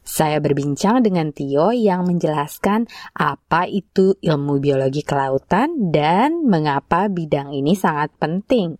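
measured scripted report read; radio feature intro. Real, not acted. Host introducing a student's profile to listeners, scripted presenter read.

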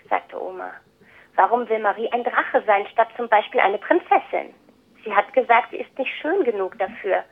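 picture-book reading with lightly acted dialogue; story narration. A narrator's reading. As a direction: read aloud to children, clearly phrased with pauses. Reads the picture book aloud.

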